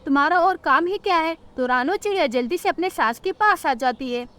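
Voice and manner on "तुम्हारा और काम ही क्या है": higher-pitched nagging mother-in-law; scolding mother-in-law. Acted. Mother-in-law finds Rano by her eggs, scolding.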